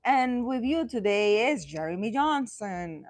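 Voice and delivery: lightly announced, host-style introduction; a touch of the announcer; show host introduction. Shown as a demonstration. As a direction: introduce a strong name to an audience. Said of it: "is a strong man's name".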